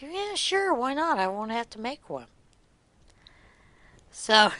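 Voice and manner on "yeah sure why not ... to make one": high, bright mock-innocent yeah sure; pitched-up cheeky retort; cheeky high reply. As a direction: toss it off lightly up high. Her retold cheeky reply.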